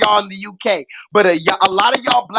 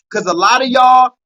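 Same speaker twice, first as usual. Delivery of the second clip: shout; 5 dB louder than usual. Real, not acted. Calling out to chat.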